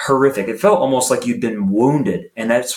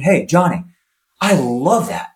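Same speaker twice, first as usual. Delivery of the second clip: positive coach; 3 semitones higher than usual. Retold or imitated. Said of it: "a positive inflection".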